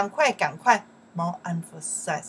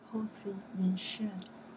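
whispered; 6 dB quieter than usual. Shown as a demonstration. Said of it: "whispered gloss".

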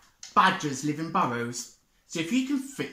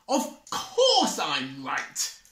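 slow, proud and pleased; beaming Badger; 2 semitones higher, 4 dB louder, much slower than usual. Badger boasts proudly to the animals. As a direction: savour being right. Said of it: "beamed Badger".

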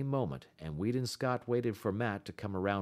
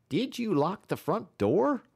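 high, loud rough demand; demanding musher; 11 semitones higher, 6 dB louder than usual. A narrator's reading. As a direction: press him hard for an answer. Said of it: "Matt demanded".

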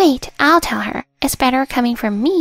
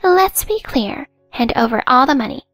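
demanding; 4 semitones higher, 4 dB louder than usual. Acted. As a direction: lay down the terms. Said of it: "she demanded again".

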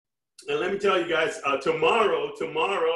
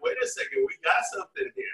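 surprised; faster than usual. Retold or imitated. Quoting his own surprise.

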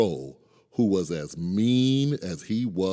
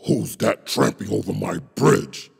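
louder troll roar; 4 dB louder than usual. Acted. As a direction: roar it at the big goat. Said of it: "roared the troll".

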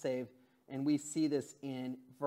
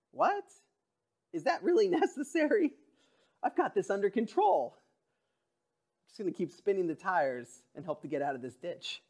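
indignant sinner. Pretend. Pastor voicing a stubborn sinner refusing rescue, mock indignant. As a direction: play a defensive person waving off help. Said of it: "We're not so happy to hear".

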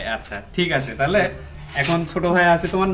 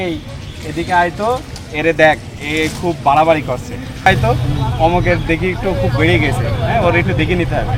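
Chuadanga dialect; 5 dB louder than usual. Shown as a demonstration. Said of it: "আমাদের চুয়াডাঙ্গার ভাষাতে আমরা যেমন বলি".

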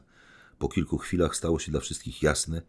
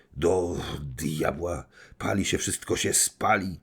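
calling out; 2 semitones higher, slower than usual. Acted. Man despairing at the burning packet, alarmed cry. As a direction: call out in despair at the flames. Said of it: "zawołał".

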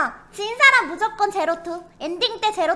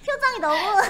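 breathy giggles around words; giggling; 2 semitones higher than usual. Real, not acted. Laughing at a face.

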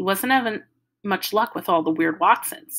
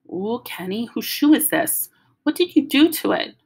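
alarmed little sister; 5 semitones higher, 3 dB louder than usual. Acted. Joey finds ruined shoe.

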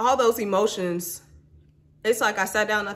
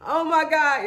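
emotional exclamation; 8 semitones higher, 5 dB louder than usual. Real, not acted. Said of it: "I don't wanna cry".

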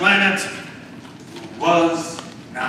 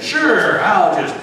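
genie; 4 dB louder, slower than usual. Acted. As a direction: play the obliging genie. Genie answers the wish.

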